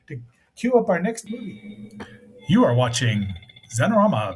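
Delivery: booming station ID announcer voice; old radio announcer. Acted. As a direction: announce the station break grandly. Mock station identification break.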